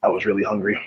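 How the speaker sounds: talking between spoonfuls; words round a mouthful; eating soup. Real, not acted. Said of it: "I'm eating soup at the moment".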